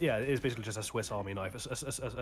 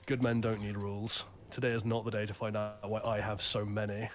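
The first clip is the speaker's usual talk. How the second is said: cold and menacing. Retold or imitated. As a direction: say it coldly, without raising your voice. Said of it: "cold ass lines for his anger".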